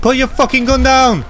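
commanding shout. Pretend. Vigilante orders gunman to disarm, commanding shout.

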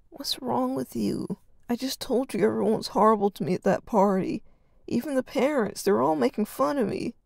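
complaining to his brother; whining. Acted. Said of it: "Arden continued whining".

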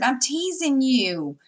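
reassuring tease. Retold or imitated. Mother telling her son she's only teasing, slow and drawn out. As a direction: spell it out that it's only a joke. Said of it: "And I said".

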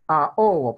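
Ahogo split loudly as a-ogo; separated vowels. Shown as a demonstration. Teacher giving an example of hiatus, a-ogo split. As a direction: break Ahogo between a and o. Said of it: "Son dos vocales abiertas diferentes".

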